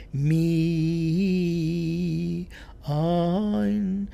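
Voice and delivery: mi stressed, pause, then ayin; accent on mi. Retold or imitated. The singer's wrong stress on mi, imitated. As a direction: hit mi, hold, then ayin. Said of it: "She was going".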